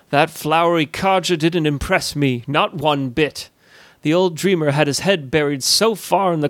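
a hint of a scornful old merchant, unimpressed; lightly voiced grumpy guildmaster. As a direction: sneer gently at the old dreamer. Grumpy guildmaster Nissel speaks.

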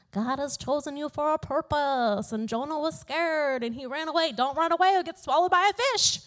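mock sermon voice that speeds up at the end; imitating preachers. Mimicking everyone who preaches Jonah's story, mock preaching. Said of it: "everyone preaches this message and they're like".

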